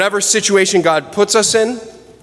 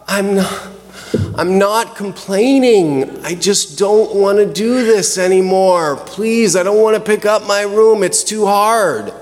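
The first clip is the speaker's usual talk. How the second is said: put-on a child's put-upon whine, pitched up a little; whiny child; 3 semitones higher than usual. Child whining back at parent about cleaning room. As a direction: whine like a kid told to tidy up. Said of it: "doesn't sound quite as whiny".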